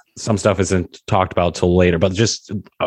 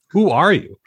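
laughing put-on voice; 7 semitones higher than usual. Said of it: "What is this voice you're doing".

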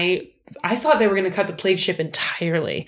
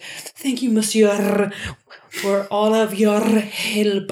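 charming Fergus; 2 semitones higher, much slower than usual. Retold or imitated. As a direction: lay on the sly politeness. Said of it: "Fergus turns on the charm and is like".

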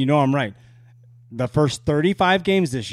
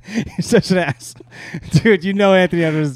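laughing ribbing; 4 semitones higher, 4 dB louder than usual. Real, not acted. Teasing friend.

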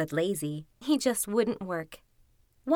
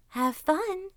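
high, sly little send-off; grinning fox; 8 semitones higher than usual. A narrator's reading. Fox seeing off the hunter, grinning. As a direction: wish him well through a grin. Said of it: "grinned the fox".

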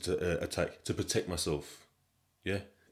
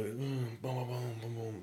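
mumbled filler noises; 4 semitones higher, 7 dB quieter, slower than usual. Retold or imitated. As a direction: mumble it softly as imitated rambling. Imitating someone's rambling talk with noises.

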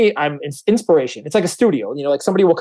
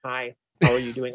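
lower, much softer, dry hello; soft-spoken greeting; 4 semitones lower, 6 dB quieter than usual. Retold or imitated. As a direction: answer like a reserved technical type. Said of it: "technical, dry, soft spoken".

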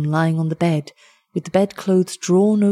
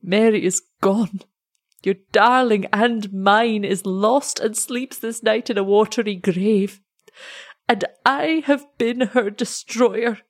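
slow, higher, grief-laden telling; despairing confession; 3 semitones higher than usual. Acted. Heartbroken lover confesses to the parents, slow and despairing. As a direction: speak each word as if it breaks you.

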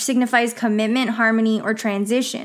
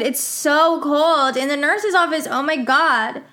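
sleepy mumble; 4 semitones higher than usual. Retold or imitated. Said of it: "I said".

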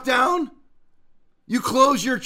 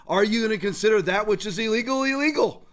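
mock question. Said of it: "he couldn't answer a question".

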